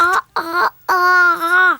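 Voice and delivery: talking with mouth wide open; mouth propped open. Acted. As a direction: try to speak with jaw held open. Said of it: "C'est très difficile de parler avec la bouche grande ouverte".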